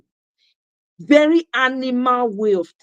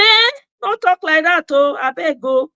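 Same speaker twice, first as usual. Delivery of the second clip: louder, higher scolding mom; 4 semitones higher, 3 dB louder than usual. Retold or imitated. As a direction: tell him off sharply. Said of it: "She will say".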